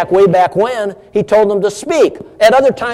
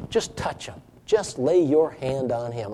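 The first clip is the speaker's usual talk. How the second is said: prayerful; 4 semitones lower, 8 dB quieter than usual. Retold or imitated. Voicing a quiet prayer.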